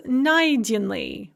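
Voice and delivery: найденный stressed on НАЙ; НАЙденный, first syllable stressed. Shown as a demonstration. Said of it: "with the stress on the first syllable".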